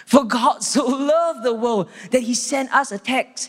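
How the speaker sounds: mock trivial version. Shown as a demonstration. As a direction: toss it off as if it were a small favour. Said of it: "It's not".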